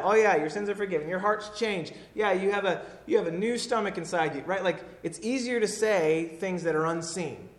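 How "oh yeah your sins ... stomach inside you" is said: fast, breezy, mock-casual promise; glib throwaway. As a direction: toss it off lightly. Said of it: "easier to just say that, to throw that out".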